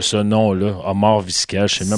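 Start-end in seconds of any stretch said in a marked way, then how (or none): 0.8-1.7 put-on Arabic accent on a Latin name; arabic accent in french. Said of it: "Je viens de faire un accent arabe sur une voix latine".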